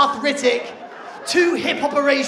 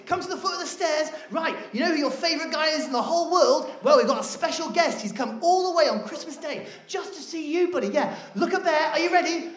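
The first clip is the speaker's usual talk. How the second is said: put-on calling the kid; 2 semitones higher than usual. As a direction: build it up like a big surprise for a little boy. Calling toddler to stairs, reveal.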